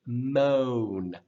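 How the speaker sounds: "Moan" with a long rounded oh; rounded vowel. Shown as a demonstration. Teacher models the correct roundedness, drawn-out rounded vowel. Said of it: "make sure it has a roundedness".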